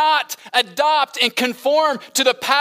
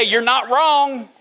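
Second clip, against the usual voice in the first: laboured cynical phrase; slower than usual. Shown as a demonstration. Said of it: "I had to work hard to say".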